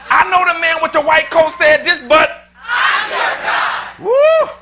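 the redone take, pushed to a high slow shout; stronger second take. Shown as a demonstration. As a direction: hit the peak this time, stretch "God" high and long. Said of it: "we're gonna do it again".

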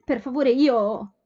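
slow, loud, halting plea; stammering, slow. A narrator's reading. Young woman tongue-tied before a stranger, slow stammer. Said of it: "balbettò Sophie".

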